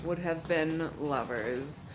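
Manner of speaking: loud opener, then slow swooning confession; mock romantic. Telling the married stranger they'd have been lovers, in a slow hammed-up swoon. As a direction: ham up the doomed romance.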